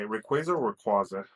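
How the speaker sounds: "Rayquaza" first as ray-KWAY-za, then as ray-KWAH-za; two pronunciations. Shown as a demonstration. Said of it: "pronounced Rayquaza".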